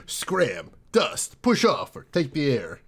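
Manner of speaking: tough-guy noir slang; lightly voiced hardboiled gangster; noir detective. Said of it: "That's the Noir voice".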